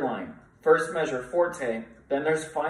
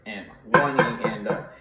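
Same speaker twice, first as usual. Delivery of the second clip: louder count with the class; louder group count; counting along; 2 semitones lower, 3 dB louder than usual. Shown as a demonstration. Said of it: "Do that with me".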